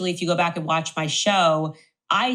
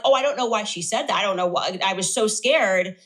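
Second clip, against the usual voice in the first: mock innocence; 2 semitones higher than usual. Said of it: "he's pretending like".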